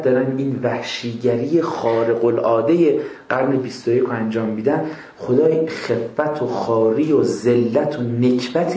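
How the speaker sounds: slow, solemn prayer of curse. Pretend. Praying slowly against the oppressors. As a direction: drag each word out like a heavy plea.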